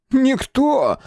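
возмущённый фамильяр, высоко и громко; выкрикни с обидой, тонким голосом; возмущённо. Acted. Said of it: "возмутился Золотцев". (возмущённый высокий выкрик)

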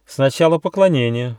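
stern command; fairy strictly demands a bow first; strict order. A narrator's reading. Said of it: "строго приказала фея".

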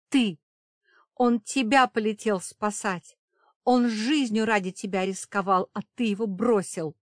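high, loud angry outburst; furious accusation. A narrator's reading. Safira blames the vampire for abandoning Kiran, loud fury. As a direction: hurl the blame at him.

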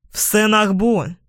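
shouted rallying cry; rally the riders forward; battle yell. A narrator's reading. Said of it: "закричал Флой".

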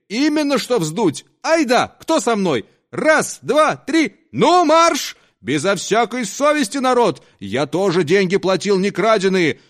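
put-on high, loud drunken rallying yell; drunk's rally cry. Drunk leading the crowd to give a thrashing, loud yell.

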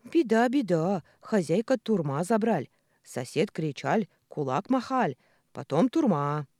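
put-on loud broken Russian with a foreign accent; foreign-accented alarm. A narrator's reading. Scared worker reporting to his boss, foreign-accented alarm. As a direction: wail the news in a thick foreign accent.

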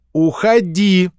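put-on bossy child's blunt order. A narrator's reading. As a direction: send him away with no softening. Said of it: "без обидняков заявила мышка".

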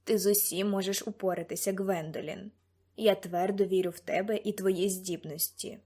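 understated, earnest encouragement; encouraging mentor. Acted. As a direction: reassure her as her trusting mentor.

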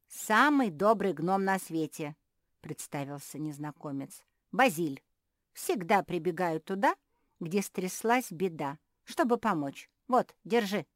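a hint of a chirpy tiny helper; cheerful little gnome. Gnome introducing himself to Josie, lightly voiced.

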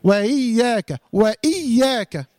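slow وإياك with a firm glottal catch; clear hamza. Shown as a demonstration. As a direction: cut cleanly between wa and إي in وإياك. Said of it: "واخدين بالكم معايا ولا لأ؟".

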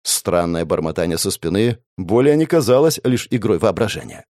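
ordinary delivery

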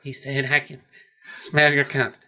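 lightly voiced, subdued reply; understated imitation of a reluctant answer; Clarice. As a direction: repeat it a little quietly, in character. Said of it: "She's like".

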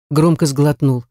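usual speaking voice

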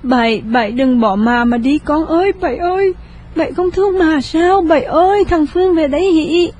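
high, wailing grief for her son; keen over the dying son; crying mother. A narrator's reading. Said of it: "Cô thượng bà ôm lấy cậu Bảy khóc". (khóc than thảm thiết)

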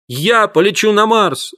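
overjoyed. A narrator's reading. Boy to family after winning the draw, joyful cry. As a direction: savour the win, bursting with joy. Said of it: "запрыгал от радости".

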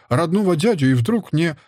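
a touch of hurt reproach. A narrator's reading. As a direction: protest as if mildly slighted. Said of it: "обиделась мать".

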